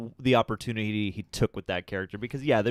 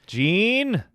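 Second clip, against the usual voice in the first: high strained shouted "Gene?"; Wolverine impression; 10 semitones higher, 5 dB louder than usual. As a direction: call out "Gene?" as a hammed-up Wolverine. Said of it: "It's our Wolverine impression".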